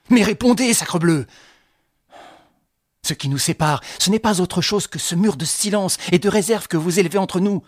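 shaking with anger, demanding an answer; exasperated. Acted. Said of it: "ce qui exaspéra Daverny".

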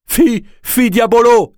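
a spiteful spirit owl hissing; the owl hissing at the medium as it attacks. A narrator's reading. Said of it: "sifflait-elle".

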